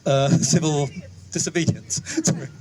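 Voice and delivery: stage fright, laughing nervously. Real, not acted. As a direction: giggle through the nerves. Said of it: "I'm a bit nervous".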